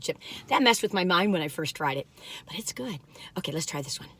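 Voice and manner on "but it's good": breathy whispered verdict; whispered aside. Real, not acted. She whispers to viewers about the cookie, hushed. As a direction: whisper it like a secret.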